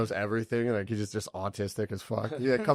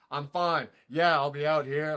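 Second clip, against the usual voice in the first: higher-pitched mock tough-guy brush-off; acting hard; 5 semitones higher than usual. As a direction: imitate a friend putting on a brave front. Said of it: "he's kinda acting hard".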